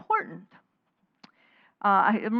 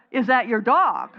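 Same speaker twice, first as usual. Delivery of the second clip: punchline laughed out, a bit louder; laughing; 3 semitones higher, 6 dB louder than usual. Real, not acted. Teacher giving the right question to the class, laughing. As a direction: say it through a real laugh.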